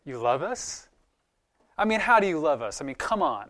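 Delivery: incredulous. Retold or imitated. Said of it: "no hint of sarcasm".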